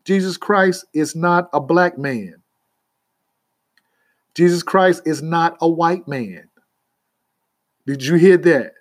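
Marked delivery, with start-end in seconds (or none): 0.0-6.5 measured emphasis, each sentence set apart by a pause; emphatic statement. Real, not acted. Preacher correcting listeners on who Christ is, emphatic. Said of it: "Let me just emphatically say".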